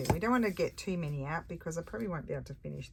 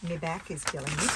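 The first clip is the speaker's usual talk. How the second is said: a light Australian accent on "My back is killing me"; Aussie accent; 5 dB louder than usual. Shown as a demonstration. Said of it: "I say it in Aussie".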